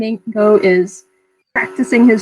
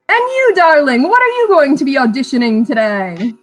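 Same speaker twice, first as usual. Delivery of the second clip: showman ringmaster. Acted. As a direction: sell it like a circus ringmaster. Ringmaster turns to Chi-Chi.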